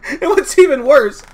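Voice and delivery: high, loud, near-crying frustration; exasperated rant. Real, not acted. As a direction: rant like it physically hurts. Ranting about undeveloped villain.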